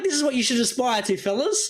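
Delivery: high mock bro voice showing off; mock macho gym guys. Mocking the shirtless blokes at the beach, a high bro voice. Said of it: "'Cause they're like".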